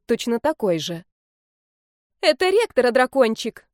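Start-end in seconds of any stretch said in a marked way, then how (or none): 2.2-3.7 much higher, squeaky and louder; squeak. Acted. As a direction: squeak it out in alarm. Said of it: "пискнула я".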